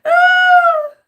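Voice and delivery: high, helpless laughing cry; laughing fit. Real, not acted. Laughing at herself on camera, cracking up hard. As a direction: lose it in laughter, then a squeal.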